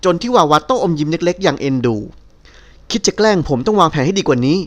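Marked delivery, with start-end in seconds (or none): 2.4-4.6 unhurried, gentle teasing calm; slow, soft, amused, nothing ruffled; soft and even. Acted. He calmly tells the woman who tried to smear him, soft and slow. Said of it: "น้ำเสียงนุ่มว่าอย่างเรียบเรื่อย".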